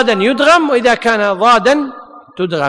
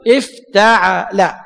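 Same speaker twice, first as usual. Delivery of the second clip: slow model word; 3 semitones lower, much slower than usual. Shown as a demonstration. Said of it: "وفي الوزن".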